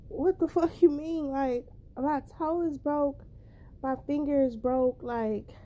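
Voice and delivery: high-pitched retold outcry, not a full scream; half-voiced scream of complaint; mock screaming protest. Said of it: "like, I'm screaming".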